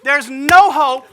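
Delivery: slow, loud and high through laughter; cracking up while mock-lamenting; laughing. Real, not acted. Acting out his thug life moment.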